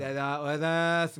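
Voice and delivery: fast, slurred, careless good morning; lazy mumbled hello; sloppy rushed greeting. Retold or imitated. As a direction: toss off the greeting like you can't be bothered. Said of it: "じゃなくて、やっぱちゃんと".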